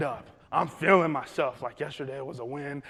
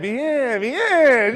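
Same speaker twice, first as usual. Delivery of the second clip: loud, high, cocky Spanish reply; hammed-up pride; showing off; 8 semitones higher, 13 dB louder than usual. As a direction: answer with exuberant confidence. Shows off his Spanish.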